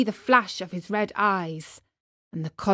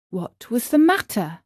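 usual speaking voice

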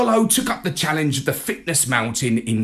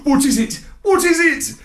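quick, louder, higher eager questions; 13 semitones higher, 6 dB louder than usual. A narrator's reading. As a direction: bounce with impatience. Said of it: "I asked eagerly".

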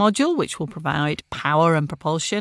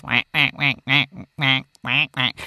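alien voice; 4 semitones lower than usual. Retold or imitated. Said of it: "sounds like the, um, Martian in Mars Attacks".

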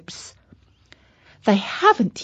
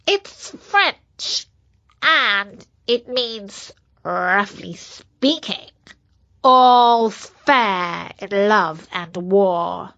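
germ voice. Acted. Virus explains proudly.

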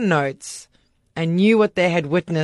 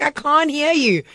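calling down the stairs, retold; yelling downstairs again; 10 semitones higher than usual. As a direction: draw it out to be heard. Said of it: "I was like".

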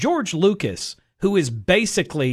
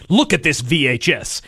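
mock promo voice; slower than usual. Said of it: "that's like going".

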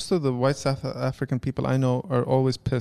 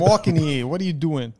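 put-on New York accent. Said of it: "like, New York or Bostonian".

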